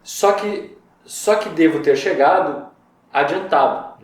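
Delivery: verse reading. Shown as a demonstration. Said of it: "ele fala ali, ó".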